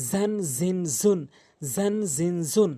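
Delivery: "জান জিন জুন" with a firm Z buzz; tongue tip firm behind the teeth on "জান জিন জুন". Shown as a demonstration. Teacher drilling learners on the letter, firm-Z "জান জিন জুন". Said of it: "একটু শক্ত করে জিহ্বার মাঝ".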